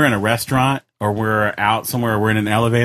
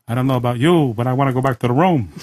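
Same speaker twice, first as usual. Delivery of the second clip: voicing an overheard lady. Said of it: "we'll go".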